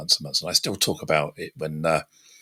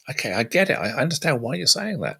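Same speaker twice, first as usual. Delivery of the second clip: understanding; 6 semitones higher than usual. Acted. Models a respectful reply in disagreement.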